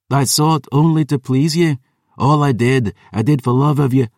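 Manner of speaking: she begs her father to see what she's given; wounded daughter. Acted.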